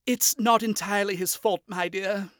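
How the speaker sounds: smooth it over kindly; soothing a grumpy young woman, apologetic. A narrator's reading. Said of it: "Stolas said to her apologetically".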